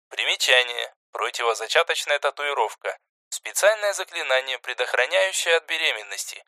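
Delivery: quiet explanatory aside; footnote read aside. A narrator's reading. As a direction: step out of the story for an aside.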